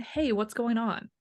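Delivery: soft, slow, caring question; gentle. Retold or imitated. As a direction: ask gently like a calm parent. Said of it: "or saying".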